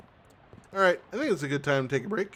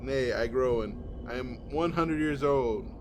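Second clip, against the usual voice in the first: hint of a lofty old tree speaking; solemn tree voice; 2 semitones lower than usual. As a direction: read it as an old forest spirit. Tree dialogue, confrontation.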